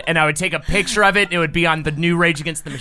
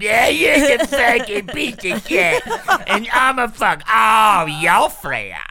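whiny ex impression; 5 semitones higher, slower than usual. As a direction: rant like a hammed-up angry ex. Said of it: "my ex-girlfriend voice is pretty similar to my Jackie impression".

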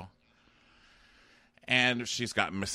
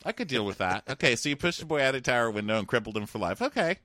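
mock Brienne; 4 semitones higher than usual. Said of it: "listening to your list as Brienne".

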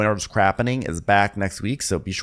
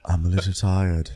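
wind voice; 7 semitones lower than usual. Pretend. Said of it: "That's my wind voice".

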